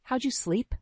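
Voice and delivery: high, light friendly voice; cheerful friend. Acted. Friend greeting her guest in the morning, cheerful. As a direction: perk her up.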